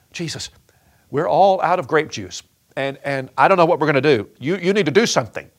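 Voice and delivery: quick, pressing mother's plea, dropping to a near whisper; hurried worried mother asking her son for help; urgent plea. Retold or imitated. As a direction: urge him to fix it, half-whispered then rushing. Mary urging Jesus at wedding.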